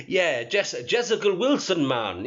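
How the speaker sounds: lightly attempted, bad Jamaican accent; mock the name with a hint of fake Jamaican; terrible Jamaican accent. Shown as a demonstration. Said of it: "that's a terrible Jamaican accent".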